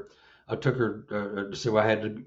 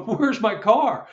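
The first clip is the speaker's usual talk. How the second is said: high, slow, louder baffled question; retold bewilderment; 11 semitones higher, 5 dB louder, slower than usual. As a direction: replay the disbelief, stretching it out. Retells himself searching for car.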